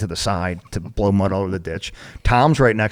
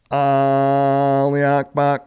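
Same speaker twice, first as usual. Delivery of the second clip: slow, higher mock enemy radio call; radio threat voice; 5 semitones higher, slower than usual. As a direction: drag the threat out slowly, like a radio broadcast. Radio operator relaying Taliban threat.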